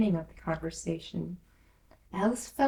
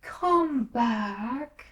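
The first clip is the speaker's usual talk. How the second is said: calling after; 4 semitones higher, 4 dB louder than usual. A narrator's reading. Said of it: "the caterpillar called after her".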